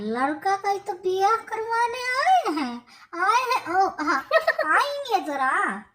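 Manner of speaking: words laughed through, covering the gap; mother covering for the missing groom, laughing nervously. Acted. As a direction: laugh it off awkwardly. Covering an awkward moment.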